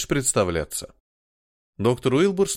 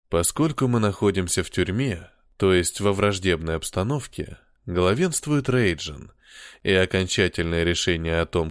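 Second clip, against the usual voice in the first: put-on British accent; 4 semitones lower than usual. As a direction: speak it like a genteel Englishman, British accent. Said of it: "благородным британским акцентом".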